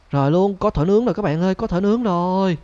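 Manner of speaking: high, loud excited call; loud excited cry about the roast rabbit; excited shout. Real, not acted. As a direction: shout it out half joking, half alarmed. Thinks he hit the rabbit.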